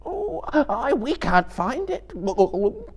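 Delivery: very high, sobbing wail. Acted. Gollum pleads with his unseen torturer, sobbing. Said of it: "he sobbed in his throat".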